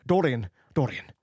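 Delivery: loud, anguished calling of the name; cried out. A narrator's reading. The painter crying out to Dorian, alarmed. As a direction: cry out to stop him. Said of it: "he cried".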